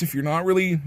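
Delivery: hiccuping mid-sentence; interrupted by a hiccup. Real, not acted. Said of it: "sorry, I'm hiccuping".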